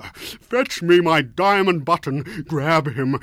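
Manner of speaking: loud, slow, high indignant roaring; outraged sultan. Acted. Insulted Sultan ordering his servants to seize the rooster, furious. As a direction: drag out every word in royal fury.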